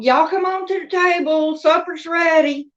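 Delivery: high sing-song call of a Southern mom; mom calling to supper. Retold or imitated. Mama calling the family in to supper, high and sing-song.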